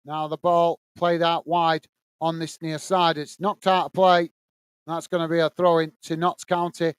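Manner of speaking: steady live match commentary; play-by-play. Acted. Commentator calling the match for stream viewers, play-by-play. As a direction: call the action as it unfolds.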